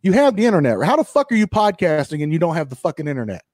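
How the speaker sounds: exasperated rant. Retold or imitated. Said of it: "I'm like".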